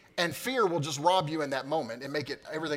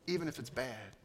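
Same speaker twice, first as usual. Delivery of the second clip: soft comfort; 10 dB quieter than usual. Acted. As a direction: reassure them quietly. Quiet comforting close.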